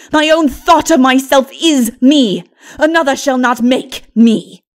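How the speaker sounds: loud, proud, self-possessed defiance; defiant sorceress. Acted. Lilith to Mara, loudly defying any maker. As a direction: declare yourself your own creator.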